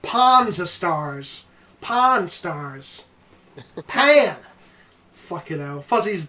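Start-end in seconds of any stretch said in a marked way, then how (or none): 0.0-4.4 "Panzer stars", "Pan stars" said slowly; mock pronunciations. Shown as a demonstration. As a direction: try out silly versions of "Pan". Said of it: "trying out pronunciations".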